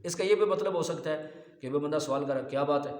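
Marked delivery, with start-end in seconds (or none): 2.5-2.9 a plain questioning "کیا بات ہے"; asking a question. Shown as a demonstration. Preacher acting out someone asking "کیا بات ہے" as a question. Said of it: "یہ سوال ہے".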